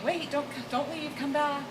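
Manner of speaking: hint of a ghostly plea; creepy ghost voice. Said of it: "and kind of this creepy voice".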